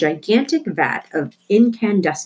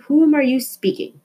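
shouting up the stairs; 8 semitones higher than usual. A narrator's reading. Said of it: "her mother shouted".

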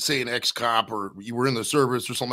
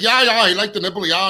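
high, loud mock German accent; imitated German accent; 6 semitones higher, 7 dB louder than usual. Imitating the German neighbour breastfeeding, high mock German accent. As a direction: mimic a German woman, pitched up and loud. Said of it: "funny as fuck with her accent".

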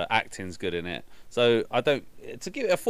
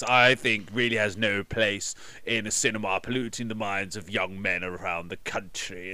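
Hatch impression. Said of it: "Hatch, sorry, go on".

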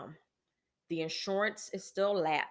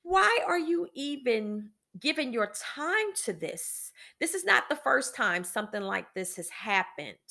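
self-scolding; 3 semitones higher than usual. Retold or imitated. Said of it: "And I'm like".

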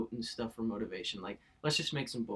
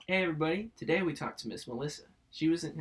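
talk show host; 3 semitones higher, 4 dB louder than usual. Acted. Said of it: "That sounds like I'm a talk show host".

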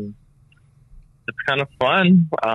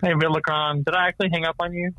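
on speakerphone; 5 semitones higher than usual. Real, not acted. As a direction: voice over a phone speaker. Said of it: "Put him on speaker".

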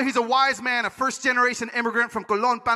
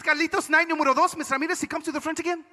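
higher-pitched Panamanian storytelling; Panamanian father; 6 semitones higher than usual. Retold or imitated. Dad telling Carlitos of night two, raised accented voice. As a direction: narrate eagerly with a Panamanian accent. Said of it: "He said".

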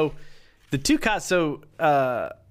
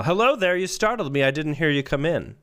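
Pee Wee voice; 2 semitones higher than usual. Acted. Same character reread.

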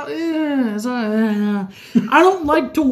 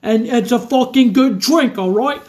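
exaggerated British gangster impression; Peaky Blinders British accent. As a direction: put on a thick mock British gangster accent. Drinker doing Peaky Blinders impression.

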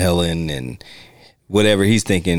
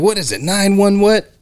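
high, baffled imitation; lightly voiced dazed woman; mock confused; 10 semitones higher than usual. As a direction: fumble it like she's lost the thread.

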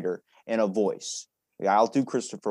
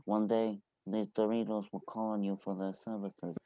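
hushed, raspy mob boss; a hint of Don Corleone; Godfather voice; 7 dB quieter than usual. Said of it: "you couldn't be Don Corleone".

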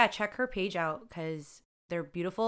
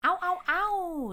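hype cheer; 11 semitones higher, slower than usual. Real, not acted.

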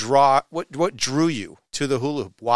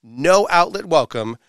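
showy podcast host introduction with dramatic pauses; announcer-style intro. Acted. Host welcomes listeners and hypes the hula hoop guest, announcer style. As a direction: build up the guest with punchy emphasis.

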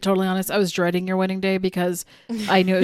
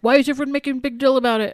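higher, quick imitated protest; mock indignant grumble; 5 semitones higher, faster than usual. Embarrassed brother protesting the fuss, mock indignant. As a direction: imitate someone flustered by fuss, rushed.

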